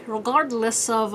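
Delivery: "regardless" slowed and drawn out; oddly said regardless. Real, not acted. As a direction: stretch "regardless" into an odd pronunciation. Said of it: "why I said it like that".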